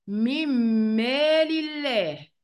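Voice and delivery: slow "من مال الله" as mimm-maal illah; nun merged into mim. Shown as a demonstration. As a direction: hold a doubled m across "من مال الله". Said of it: "وهتنطقها إزاي؟".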